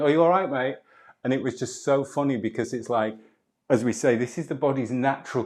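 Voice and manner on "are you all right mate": lightly voiced worried passer-by asking; concerned stranger. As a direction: ask like a kind stranger checking in. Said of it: "each time going".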